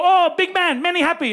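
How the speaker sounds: high, excited mimicked greeting; delighted host. Happy Pizza staff greet a big customer, excited welcome.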